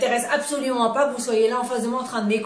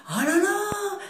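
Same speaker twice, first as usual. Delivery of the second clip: higher, quicker startled realization; light up as the penny drops; a mother realizing why she is always tired, quickly surprised; sudden realization; 7 semitones higher than usual. Retold or imitated. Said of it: "Et j'ai dit".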